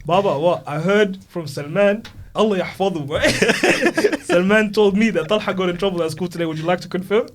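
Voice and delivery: gleeful mock report to father; eager snitching. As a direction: savour the gossip to dad. Speaker retelling telling dad, louder.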